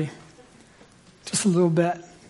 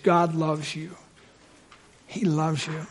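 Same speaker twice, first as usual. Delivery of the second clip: quiet assurance; 7 dB quieter, slower than usual. Real, not acted. Preacher telling the congregation God's one message, quiet assurance. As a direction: let it drop softly, like a tender truth. Soft repeat of sermon's message.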